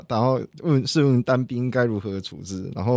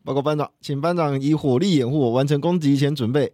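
cover me shout. Shown as a demonstration. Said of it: "我们可以来一小段就好。".

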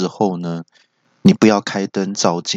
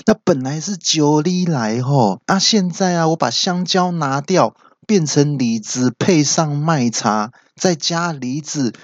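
higher-pitched, pleased-with-himself husband; smug boast; 6 semitones higher than usual. Acted. Husband showing his wife his clever trick, smug. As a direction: show off a clever trick, drawn out toward the end. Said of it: "就得意的跟太太说".

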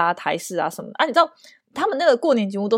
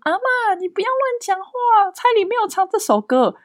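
mock-stern sister; 11 semitones higher than usual. Sister correcting grandma.

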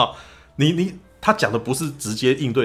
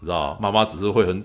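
ordinary delivery

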